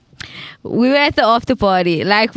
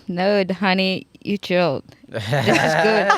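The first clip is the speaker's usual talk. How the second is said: mock low reassurance; 4 semitones lower, 3 dB quieter, slower than usual. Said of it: "They're like".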